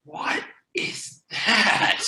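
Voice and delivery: breathless scared whisper; frightened whisper. Acted. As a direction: hush it, afraid of the noise. Startled whisper from behind table.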